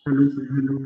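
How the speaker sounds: echoey big room sound. Real, not acted. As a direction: voice echoing in a large room. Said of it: "इको बहुत है".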